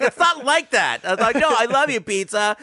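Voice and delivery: high, loud mock pleading. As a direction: plead with the pizza in a squeaky high voice. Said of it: "I'm like".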